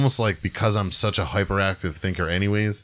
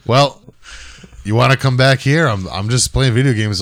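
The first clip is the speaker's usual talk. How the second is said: amused friend; 4 semitones higher, 4 dB louder than usual. Retold or imitated. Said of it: "he just starts laughing and he goes".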